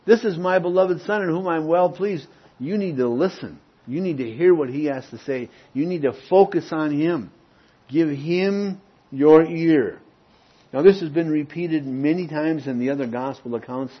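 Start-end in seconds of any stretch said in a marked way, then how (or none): 0.0-10.0 emphatic proclamation, higher at first, slowing at the end; lightly voiced heavenly Father. The Father speaks from the cloud to the disciples, lightly voiced proclamation. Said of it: "a voice came out of the cloud saying".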